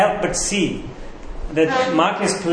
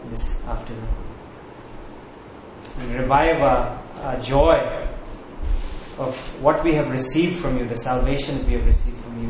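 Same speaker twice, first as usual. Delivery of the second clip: subdued, lower-pitched congregational prayer; 3 semitones lower, 4 dB quieter than usual. Real, not acted. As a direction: address God quietly, in measured phrases with pauses.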